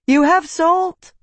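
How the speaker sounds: high, slow shout with a rising end. A narrator's reading. Slave shouts to Tavi about the salt, high drawn-out shout. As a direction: call it across the storm, stretched out. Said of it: "she shouted through the storm".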